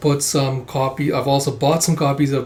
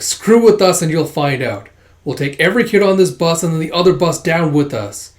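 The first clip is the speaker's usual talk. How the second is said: louder, raised acted threat; defiant hijacker; 3 semitones higher, 5 dB louder than usual. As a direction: warn the police defiantly.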